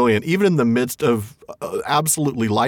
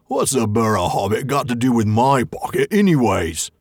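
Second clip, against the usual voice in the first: lightly voiced grumbling troll; a hint of a suspicious troll; troll William. William demanding what the hobbit wants, a lightly voiced grumbling troll. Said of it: "said William".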